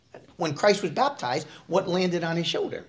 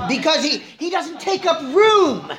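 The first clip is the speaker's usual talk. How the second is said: laughing; 10 semitones higher, 5 dB louder, slower than usual. Real, not acted. Joking about spiritual constipation.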